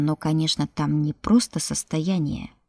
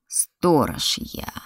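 creature voice; 2 semitones lower, much slower than usual. Acted. Creature speaking.

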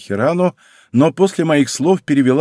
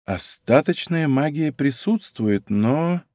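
slow, softer, trailing; unsure; 4 semitones higher, 3 dB quieter, slower than usual. Acted. Fox spirit reporting to him, slow and unsure. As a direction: feel your way, not certain. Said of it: "начала Хирану неуверенно".

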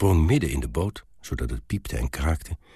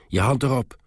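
higher, urgent call; called-out order; 7 semitones higher, 3 dB louder than usual. A narrator's reading. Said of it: "riep hij tegen het meisje". (hoog geroepen bevel)

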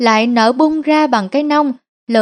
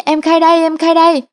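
Linh yells to give up, pitched up; shouting out; 5 semitones higher, faster than usual. A narrator's reading. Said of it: "Cô Linh hét vang".

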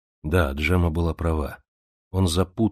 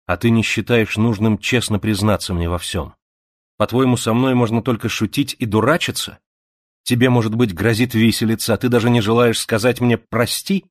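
reproachful outburst; 4 semitones higher, 4 dB louder than usual. Acted. Zita reproaching angrily.

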